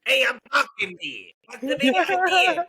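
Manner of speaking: loud, high, growly New Yorker; New York accent. Shown as a demonstration. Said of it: "Do the New York".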